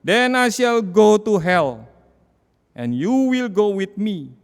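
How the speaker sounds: loud, slow, high defiant cry; a dying skeptic shouting his fate; retold dying yell. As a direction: hurl it out like a curse at death. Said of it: "Lalu dia teriak".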